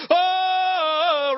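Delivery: held cheering roar; crowd roar. Retold or imitated. Whole campus running out, sustained crowd roar. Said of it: "we're just".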